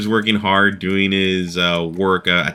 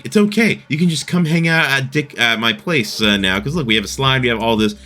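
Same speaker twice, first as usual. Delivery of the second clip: high, breezy mock Cartman voice; high-pitched cartoon kid bragging about his slide; imitating Cartman; 5 semitones higher than usual. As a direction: lightly play Cartman brushing Butters off. Cartman showing off the restaurant.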